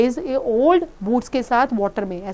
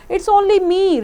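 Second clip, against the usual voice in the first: timid reply; 7 semitones higher, 4 dB louder, much slower than usual. Acted. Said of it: "replied the scarecrow".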